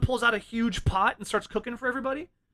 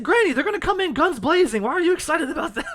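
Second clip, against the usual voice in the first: laughing disbelief; 8 semitones higher, 4 dB louder than usual. Retold or imitated. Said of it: "I said".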